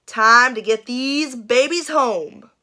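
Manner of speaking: sheriff voice. Acted. Sheriff voiced in read-aloud story.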